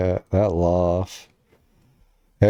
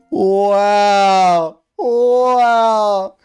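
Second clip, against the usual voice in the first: loud, high amazed wow; 10 semitones higher, 7 dB louder than usual. Real, not acted. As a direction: gasp it out in disbelief. Reacting to impeccable timing in clip.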